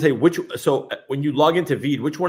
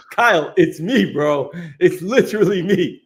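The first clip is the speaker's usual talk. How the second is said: higher-pitched mock insistence, breaking into a laugh; retold protest; 4 semitones higher, 4 dB louder than usual. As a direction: protest in amused disbelief. Retelling own protest to Kyle.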